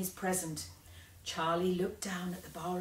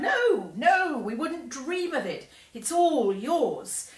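higher, louder refusal with a laugh; laughing protest, higher and louder; cried; 8 semitones higher, 7 dB louder, slower than usual. Acted. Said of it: "and the others all cried".

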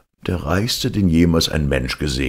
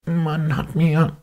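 higher, slow, teasing cat voice; sly cat; slower than usual. Acted. Cat baits the ogre, higher and slow. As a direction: bait the ogre slowly. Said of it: "sagte der Kater".

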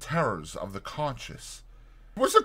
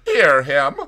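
put-on drunken taunt; 5 semitones higher, 10 dB louder than usual. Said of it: "remarked the stranger".

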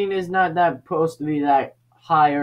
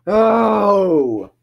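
high-pitched exclaim; 3 semitones lower, 4 dB louder, much slower than usual. Real, not acted. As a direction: voice jumps up on oh. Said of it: "My voice was not that up".

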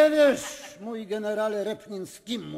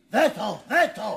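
okrzyk sprzeciwu; 3 semitones higher, 7 dB louder than usual. Acted. Magnate protests at assembly.

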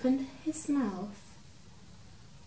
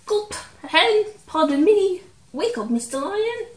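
high, loud squeaky mouse voice; a tiny mouse daring to wake a giant; timid little mouse; 9 semitones higher, 8 dB louder than usual. Acted. Mouse to sleeping lion, squeaky nervous high voice.

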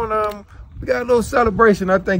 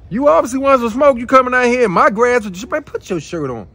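angry confrontation; 4 semitones higher, 4 dB louder than usual. Acted. Homeowner confronts stranger over grass.

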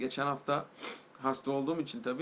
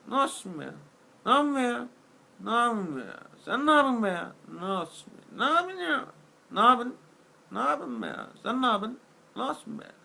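loud, higher mock dad repeating himself; imitating dad on phone; 5 semitones higher, 4 dB louder than usual. Son mimics his father's repetitive phone call, loud and higher. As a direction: ham up a father who has nothing to say. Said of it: "Şu şekilde bir konuşma geçiyor".

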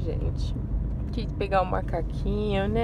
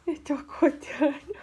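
put-on speaking for the baby in a light higher voice; 3 semitones higher than usual. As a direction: voice the baby waking up, a bit higher. Repete em voz de bebê. (voz de bebê um pouco mais aguda)

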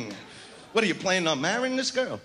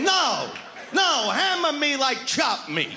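mock shout; 5 semitones higher, slower than usual. Acting out what she wants.

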